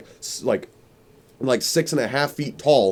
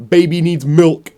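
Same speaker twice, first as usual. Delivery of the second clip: earnest dad; 4 semitones higher, 6 dB louder, slower than usual. Retold or imitated. Dad's line voiced in story.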